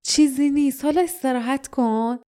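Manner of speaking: comforting tone; soothing. A narrator's reading. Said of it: "با لحن آرامش بخشی گفت".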